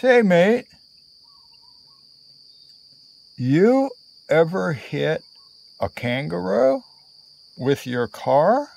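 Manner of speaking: put-on lightly done broad Australian accent, high on "Hey"; Aussie bloke. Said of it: "he inquires".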